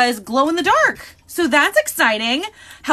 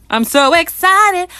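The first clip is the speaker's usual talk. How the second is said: excited; 2 semitones higher, 5 dB louder than usual. Real, not acted. Song lyric begins.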